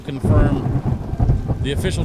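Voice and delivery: official notice read aloud, brisk at first; formal letter reading. Acted.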